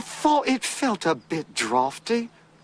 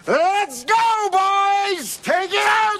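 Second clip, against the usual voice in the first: calling out; 8 semitones higher, slower than usual. Acted. Calling out to the horse team.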